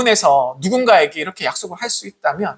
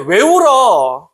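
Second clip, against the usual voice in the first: scolding reproach; 2 semitones higher than usual. Retold or imitated. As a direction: scold someone for crying, slowly. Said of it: "이렇게 말하는 것이 아니라".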